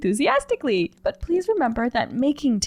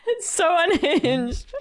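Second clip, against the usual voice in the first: 1 amused; 6 semitones higher, much slower than usual. Real, not acted. Laughing at the chaos.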